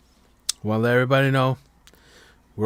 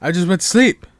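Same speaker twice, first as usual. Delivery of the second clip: indignant protest; 8 semitones higher, 7 dB louder than usual. Retold or imitated. Retells girlfriend waking him.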